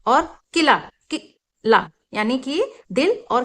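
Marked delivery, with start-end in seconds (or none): 0.5-1.9 किला said twice with a short i; teacher repeating किला; short i demo. Shown as a demonstration. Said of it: "बहुत छोटा sound होता है ई".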